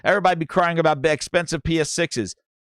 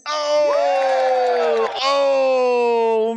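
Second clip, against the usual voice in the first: excited shout; 7 semitones higher than usual. Real, not acted. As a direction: shout it like the clip just hit. Reacting to soundboard clip.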